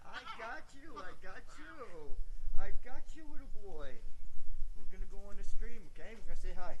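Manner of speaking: high, soft pet talk. Real, not acted. Owner carries his chihuahua back to the stream, high soft baby talk. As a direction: coo to the little dog in your arms. Talking to rescued dog.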